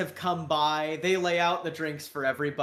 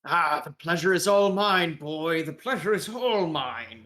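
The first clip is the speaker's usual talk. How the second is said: effusive British caricature; British accent. Acted. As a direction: savour the pleasantry in a British accent. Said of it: "with a British accent".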